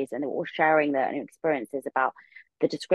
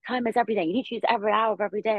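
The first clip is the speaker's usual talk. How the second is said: higher and rattled off fast, like a convert preaching; zealous hustle mantra; 5 semitones higher, much faster than usual. Retold or imitated. Recalling her obsessed younger self, quoting a hustle slogan high and fast. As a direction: quote her younger self's productivity slogan in a quick, high, eager rush. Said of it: "I remember being like".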